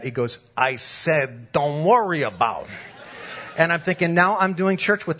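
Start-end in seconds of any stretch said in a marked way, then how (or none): 0.6-2.7 firmer wiseguy repeat; insistent mafia tough guy. Retold or imitated. Mobster overrides board approval worry, insistent wiseguy voice. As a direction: insist like a mob boss losing patience. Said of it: "like, The Sopranos".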